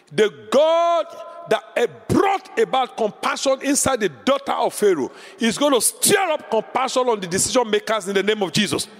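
full-force preaching proclamation; prophetic shout. Real, not acted. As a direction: declare it over the congregation.

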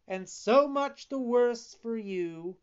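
high, loud crafty fox; sly fox. Acted. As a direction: sneer it like a scheming fox. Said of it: "said the fox".

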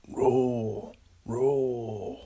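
a hammed-up macho eagle roar; manly mock roar. Picturing a bald eagle's scream, playful manly roar. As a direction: roar it out like a tough, manly bird. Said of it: "It'd be, like, manly".

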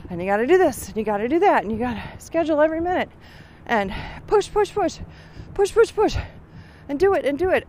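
mock pushy hustle coach, racing then pitching up high on push; imitating Dean. Mocking Dean's nonstop hustle advice, fast and pushy. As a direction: rattle off the orders fast, hammering push, push. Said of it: "he's like".

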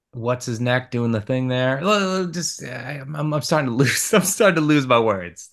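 tipsy, losing words; slightly slurred, tipsy speech. Real, not acted. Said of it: "I'm getting drunk".

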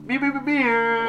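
cat meows. Pretend. Playful cat noises for birthday.

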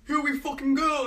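rally the gang, half in jest; gang rallying cry. Acted. Shelby gang charging ahead, mock rallying shout. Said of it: "They'd be like".

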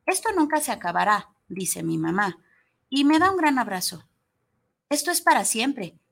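lightly voiced child storyteller; story read aloud in a young girl's voice; reading as a little girl. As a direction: tell it as the girl herself, simply. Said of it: "transmitirlo como lo transmite la niña".

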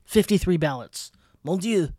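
shocked French chef exclamation. Pretend. Mock French horror.

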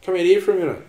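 loud sung-out call to mum; dad hollering for mum. Retold or imitated. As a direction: call her out from the house, loud and high. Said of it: "he sings out to me mum".

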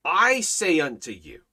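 authoritative scripture quote, weight on the opening I; absolute authority. Acted. Preacher quotes the Lord to listeners, with absolute authority. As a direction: declare it with divine authority. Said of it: "vocabulary of absolute authority".

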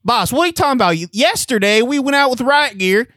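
high, loud protesting officer; whiny cop. Acted. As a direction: whine back at the boss. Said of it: "we're at a precinct".

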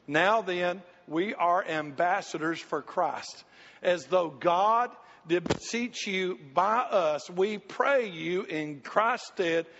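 slow, measured King James reading; scripture reading. Acted. Preacher slowly reading scripture to the church. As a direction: read the verse slowly and weightily to the congregation.

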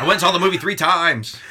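put-on high, loud Jewish accent. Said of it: "That's a great Jewish accent you have there".

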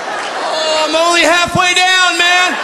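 high voice, pained by the burning slide; high pained yelp. Acted. Kid on a hot slide, squealing high in pain.

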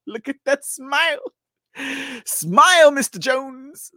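high, loud laughing coax; giddy coaxing. Pretend. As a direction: tease him to smile. Coaxing photo to smile.

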